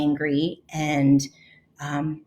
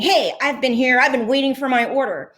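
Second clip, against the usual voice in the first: mild mock shout; 6 semitones higher, faster than usual. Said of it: "he started shouting".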